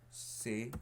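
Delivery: "Seguro" broken into se... gu... ro; syllable by syllable. Shown as a demonstration. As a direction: spell out "Seguro" in separate syllables to find the stress. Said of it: "Aquí cargo la voz".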